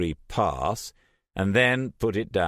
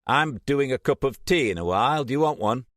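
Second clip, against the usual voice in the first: higher, casual male voice; light friendly question from Jason; Jason's voice; 8 semitones higher, 4 dB louder, faster than usual. A narrator's reading.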